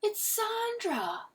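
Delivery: very high, drawn-out squeal; slow, piercing cry without much volume; sudden fan scream. A narrator's reading. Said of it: "someone suddenly screamed".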